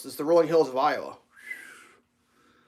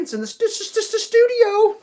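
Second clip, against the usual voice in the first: playful stutter; 4 dB louder than usual. Real, not acted.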